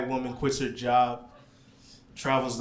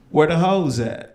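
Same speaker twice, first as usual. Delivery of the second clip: imitating taxi driver; 3 semitones higher, 7 dB louder than usual.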